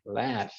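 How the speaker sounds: "Laugh" as "laf", soft. Shown as a demonstration. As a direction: say "Laugh" with the F sound. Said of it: "O laugh, que é a risada". ("Laugh" com som de F)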